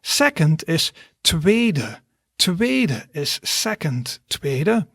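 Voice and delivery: "tweede" slowly, long ee; slow down and stretch "tweede"; slow pronunciation demo. Shown as a demonstration. Teacher drills tweede for learners, slow and clear. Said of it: "Then second".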